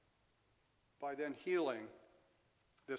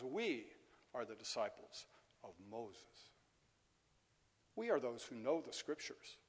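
sneering; 4 dB louder than usual. Acted. Preacher voices sneering Pharisees.

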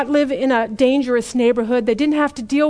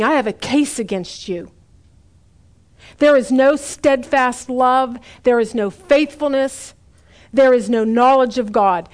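wounded lover; 4 dB louder than usual. Acted. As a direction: plead like a betrayed lover. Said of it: "the words of a wounded lover".

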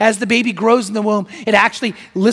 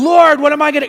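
hammed-up plea, higher and louder; mock frantic prayer; 6 semitones higher, 7 dB louder than usual. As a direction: cry out to God in mock desperation. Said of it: "you're praying like crazy".

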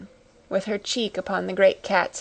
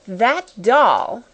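sharp, louder cry of scorn; cried out; 3 semitones higher, 5 dB louder than usual. A narrator's reading. Headmistress scorning the doll, crying out louder. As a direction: spit out the words in contempt. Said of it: "cried Miss Minchin".

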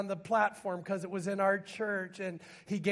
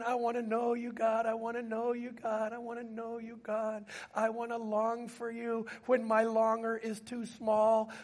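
earnest, insistent pleading with God; retold prayer, urgent and repetitive; fervent prayer; 3 semitones higher than usual. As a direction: pray it in a raised, sustained cry of longing. Retells fervent prayer at sermon climax.

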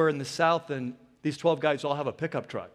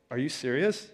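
1 incredulous laughing; 4 semitones lower than usual. Retold or imitated. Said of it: "And they said to him".

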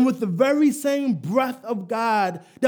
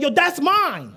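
emphatic claim; 2 semitones higher than usual. Shown as a demonstration. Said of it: "this gotta be emphatic".

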